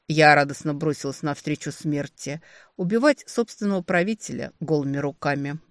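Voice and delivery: plain reading voice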